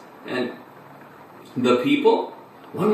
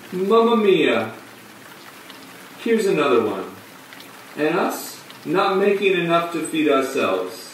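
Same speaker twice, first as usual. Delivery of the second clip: put-on phony Italian accent; 2 semitones higher than usual. Clown looking down at another stray to feed, phony Italian lament. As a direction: wail it in a fake Italian accent. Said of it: "in this atrociously phony Italian accent".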